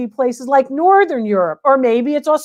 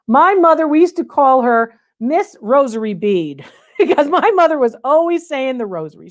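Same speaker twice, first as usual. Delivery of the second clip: laughing fondly. Real, not acted. Fond memory of her mother.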